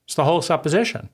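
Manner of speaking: ordinary talk, nothing marked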